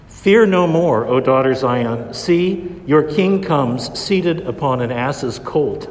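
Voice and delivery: slow, solemn quoted verse; slow it down and proclaim; scripture reading. Acted. Quotes scripture during homily.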